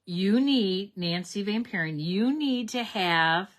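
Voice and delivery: bursting with a sudden idea; excited idea. Real, not acted. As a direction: pitch it like a fun plan.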